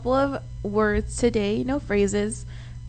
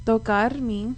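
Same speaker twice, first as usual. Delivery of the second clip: broken up for repeating; slower than usual. Shown as a demonstration. Host teaches co-hosts a Spanish sentence, broken up. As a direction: say it as one separate chunk. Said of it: "I'm gonna break it up".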